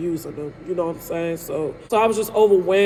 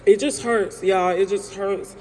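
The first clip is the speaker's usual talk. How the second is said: choked up, real tears. Real, not acted. Breaks down over her kids.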